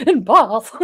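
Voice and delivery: "Bath" drawn open to "Bahth", amused; mock-posh "Bath"; posh pronunciation. Shown as a demonstration. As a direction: say "Bath" with a posh long ah, through laughter. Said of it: "it's very posh in Bath".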